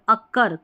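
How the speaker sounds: अकर with the force on कर; stress on final syllable. Shown as a demonstration. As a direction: lean on the last syllable of अकर, कर. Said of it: "कर में जोर दे रहे हैं".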